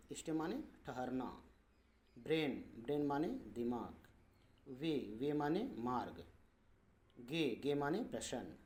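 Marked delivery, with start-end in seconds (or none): 4.7-5.3 slow, stretched ए in "वे"; drawn-out "ay". Shown as a demonstration. Teacher shows A before Y, drawn-out "ay" in "वे". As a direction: hold the vowel of "वे" long. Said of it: "कुछ लंबा उच्चारण देता है".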